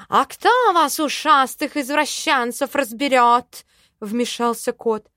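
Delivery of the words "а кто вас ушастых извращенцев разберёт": loud, high jeer at the elf; mocking loud accusation; scornful outburst. Cat butts in scornfully.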